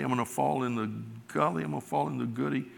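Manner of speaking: put-on "gully" said as "goody" like a small child; soft toddler lisp on "goody"; lightly voiced little boy saying "goody"; child's mispronunciation. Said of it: "he couldn't say gully".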